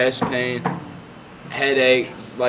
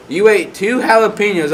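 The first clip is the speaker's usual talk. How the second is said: high, loud mock disbelief; exaggerated astonished question; incredulous doctor; 8 semitones higher, 5 dB louder than usual. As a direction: imitate a baffled doctor, voice raised. Acted disbelieving doctor in retold dialogue.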